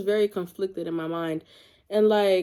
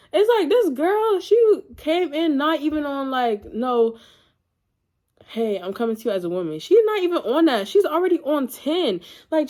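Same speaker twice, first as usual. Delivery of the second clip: indignant; 5 semitones higher than usual. Real, not acted. Indignant rant about the rude girl.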